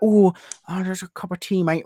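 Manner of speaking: stereotypical Brit. Acted. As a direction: parody the American idea of a Brit. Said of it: "You may think we're like".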